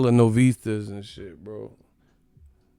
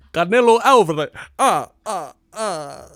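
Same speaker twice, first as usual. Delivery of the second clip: Dracula voice; 7 semitones higher, 6 dB louder than usual. Retold or imitated. The Spanish-channel count, Dracula voice. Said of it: "Bram Stoker out this".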